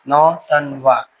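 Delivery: नौ तन वा at half speed, three separate beats; syllable by syllable. Shown as a demonstration. Teacher quizzing students on syllable count, slow and segmented. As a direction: space out नौ, तन, वा for counting. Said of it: "इसको कौन सा syllable बोला जाएगा?".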